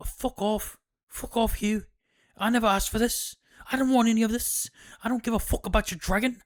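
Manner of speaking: mock hysterical yell at Hugh; furious wife. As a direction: scream at her husband to get lost. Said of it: "she's like".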